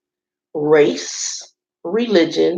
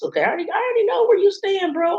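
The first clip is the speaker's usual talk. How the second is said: knowing, fed up; faster than usual. Real, not acted. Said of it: "already told me where he stands".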